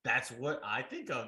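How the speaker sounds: irritated, emphatic self-defence; snippy. Real, not acted. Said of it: "Does he have an attitude right now?".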